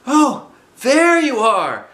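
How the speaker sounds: high, loud, slow call; Pooh calling down. Acted. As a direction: call down from the sky. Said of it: "called down Winnie the Pooh".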